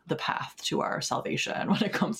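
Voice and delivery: said through a suppressed laugh. Real, not acted. Activist mocking a claim she finds hilariously horrible, laughing. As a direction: let a scornful laugh break into the words. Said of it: "I'm just obviously laughing as I say that".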